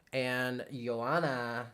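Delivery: saying the name Joanna in a Spanish accent, slowly; a slow, light Spanish accent on Joanna. Real, not acted. Reading a viewer's name on stream, in a Spanish accent. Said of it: "I totally just said that with a Spanish accent".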